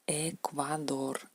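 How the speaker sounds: "Ecuador" despacio con la E española abierta. Shown as a demonstration. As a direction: alarga "Ecuador" con E limpia. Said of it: "Por ejemplo, Ecuador". ("Ecuador" lento, E natural)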